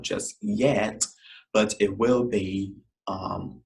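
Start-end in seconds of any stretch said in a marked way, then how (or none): none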